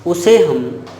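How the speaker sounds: slow, measured definition in separate phrases; model recitation. Shown as a demonstration. Teacher repeating the definition for students, slow model recitation. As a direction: dictate it slowly, pausing between phrases. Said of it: "आप ऐसे कहोगे".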